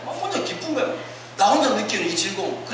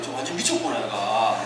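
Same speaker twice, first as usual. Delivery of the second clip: lightly voiced worried father, low and sinking; retold low fatherly concern; 12 semitones lower, 3 dB quieter than usual. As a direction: lower the pitch like a troubled dad. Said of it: "아버지 걱정을 했대요".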